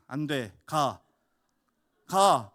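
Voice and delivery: short, annoyed "가"; mock-snap at the clinging child; irritated shove-off. Father losing patience with his daughter, mildly irritated. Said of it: "막 짜증이 막 나가지고".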